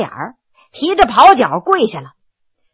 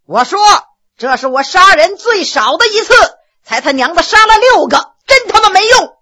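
a bellow that climbs higher and louder to the end; yelling; 6 semitones higher, 4 dB louder than usual. Acted. Prisoner bellowing at the judge who asked him to speak up, a loud rising yell. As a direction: bawl it out across the courtroom. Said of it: "像呐喊似的".

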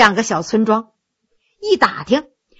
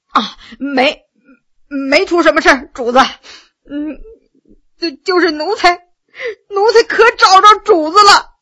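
choked up; 4 semitones higher than usual. Acted. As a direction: speak through tears of relief. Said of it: "哽咽着说". (哽咽着，断断续续，最后带哭腔)

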